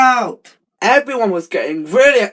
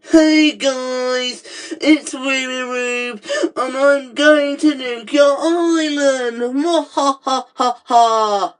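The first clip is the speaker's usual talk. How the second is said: slow theatrical villain menace; 2 semitones higher than usual. Acted. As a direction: gloat over them like a cartoon baddie. Villain announcing nuke.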